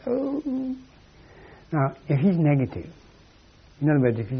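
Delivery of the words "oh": hurt "oh". Retold or imitated. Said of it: "you sneer at him and he goes".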